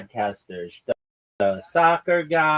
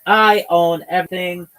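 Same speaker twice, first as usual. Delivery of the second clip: hammed-up lordly voice, louder and slow; pompous parody, slow and louder; mock arrogant boss; 4 semitones higher, 4 dB louder, slower than usual. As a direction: play a puffed-up tyrant demanding respect. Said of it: "we're like".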